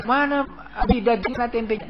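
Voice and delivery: suara anak bertanya, tinggi dan lebih keras; anak menagih lauk. Acted. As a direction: imitate a child asking Dad, pitched high and loud. Anak menagih lauk kepada ayahnya. (anak menagih lauk ke Abi)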